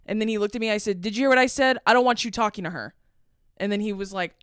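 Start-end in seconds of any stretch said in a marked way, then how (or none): 1.0-2.9 retold confrontation, higher and louder at the start; pissed-off warning. Daughter warns a man off her mom, pissed off. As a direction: lay down the law, mildly heated. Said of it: "because I'm pissed off".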